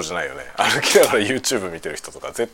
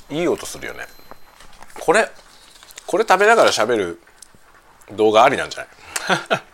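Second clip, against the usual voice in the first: talking while chewing a cracker; mouth full; 3 semitones higher than usual. Real, not acted. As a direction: speak through a mouthful of cracker. (クラッカーを頬張りながら)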